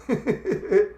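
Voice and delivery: short burst of high giggles; quick, high chuckle; chuckling. Real, not acted. Streamer reacting to a viewer's computer mishap, chuckling. Laughs after reading chat comment.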